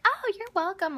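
cheery dad. Retold or imitated. Dad in a good mood.

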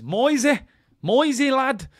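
high, loud cry of disbelief; incredulous nickname call. Real, not acted. Mock disbelief at Moyes mention.

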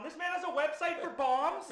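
high, loud laughing joke; real laughter through the words. Real, not acted. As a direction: crack up while saying it. Joking alarm, laughing.

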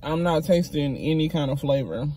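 chewing while talking; speaking between bites; mouth full of food. Real, not acted. Seen 1: Bites wrap at -5; lips pursed, chewing motion continues through the words.

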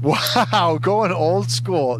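high, wowed card-reveal reaction; real excitement. Real, not acted. Host revealing an old school card, excited. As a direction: pitch it up with a delighted laugh.

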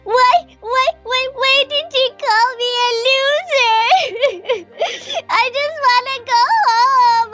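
sobbing. Acted. Alone after the mean girls, sobbing for home. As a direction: cry it out, lost and miserable.

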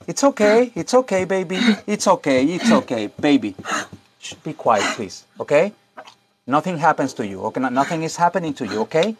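soft, hushed reassurance to a scared pet; calm the frightened dog down gently; soothing the dog. Real, not acted. Calming a frightened barking dog.

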